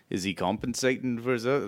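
half-hearted Scottish attempt; bad Scottish accent. Podcaster quoting a Shrek line, weak mock Scottish accent. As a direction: try a Scottish accent and miss. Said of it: "I can't do Scottish at all".

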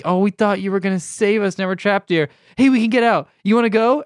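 mock hero offering a way out; excited mock rescuer. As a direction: pitch it as a gleeful rescue. Voicing the rescuers offering escape.

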